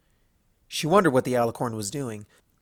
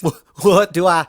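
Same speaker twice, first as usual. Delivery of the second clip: suppressing laughter; 5 semitones higher, 9 dB louder than usual. Acted. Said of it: "suppressed another bout of laughter".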